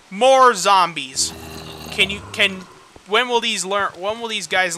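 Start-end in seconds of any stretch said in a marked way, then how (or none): 0.1-1.3 slow, loud fed-up repeat; sarcastic. Real, not acted. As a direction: drag it out, fed up. Repeat of complaint.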